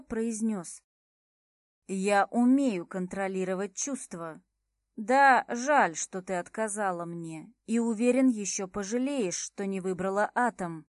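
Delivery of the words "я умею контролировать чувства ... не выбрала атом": haughty. Acted. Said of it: "надменно сузив глаза".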